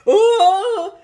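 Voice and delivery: high, loud panicked wail; alarmed cry. Acted. Host begs Billy to cut to commercial, panicked cry.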